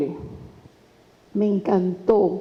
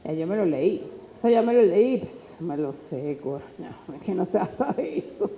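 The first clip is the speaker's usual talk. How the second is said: a hint of a lazy, dismissive student, trailing off softer; mock careless student; 4 semitones lower, 7 dB quieter than usual. Teacher imitates an unprepared student brushing off practice, dismissive. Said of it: "Si yo digo".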